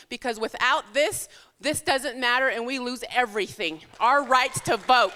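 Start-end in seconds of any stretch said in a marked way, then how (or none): 4.0-5.1 shout. Real, not acted. Campaign speech climax.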